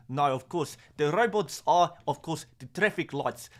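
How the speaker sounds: put-on an Afrikaans accent that drifts toward Russian; attempted Afrikaans accent. Explaining South African traffic lights to chat, in a drifting mock Afrikaans accent. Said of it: "I went a bit Russian there".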